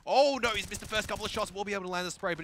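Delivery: loud, high play-by-play call; excited. Real, not acted. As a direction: call the action with rising energy.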